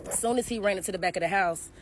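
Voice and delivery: trembling while telling it; shaky voice. Real, not acted. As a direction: voice shaking a little. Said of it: "I was shaking a little bit".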